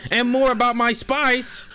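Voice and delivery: high, mock-indignant outburst; hammed-up demand; indignant interjection. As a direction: tack it on as a comic protest. Heated interjection as story character.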